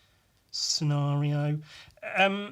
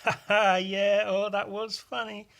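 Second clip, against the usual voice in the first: higher, forced laughing reply; fake polite laugh; 7 semitones higher than usual. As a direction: humour them with a hollow laugh.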